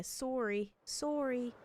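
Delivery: "Sorry" with a rounded "sore-ee" vowel, Canadian style. Shown as a demonstration. Streamer demonstrating what gives Canadians away, Canadian "Sorry" as "sore-ee". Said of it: "biggest thing is when you hear".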